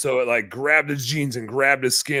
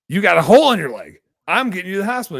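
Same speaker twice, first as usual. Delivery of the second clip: raised, louder retold protest; high, forceful mock argument; exasperated insisting; 7 semitones higher, 8 dB louder, faster than usual. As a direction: re-enact yelling sense into a stubborn dad. Retold argument while driving dad.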